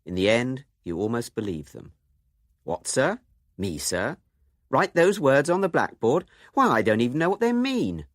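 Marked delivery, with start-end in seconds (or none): 2.6-8.1 mock-innocent protest, rising higher and louder; hammed-up injured innocence, climbing up; defensive schoolboy. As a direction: play the wide-eyed pupil denying everything. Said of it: "They start out on the defensive and gradually become more and more plausible".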